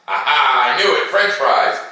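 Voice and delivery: put-on building excitement for a class of small kids; excited reveal. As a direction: announce it like a delightful surprise. Playful triumph over kids' answer.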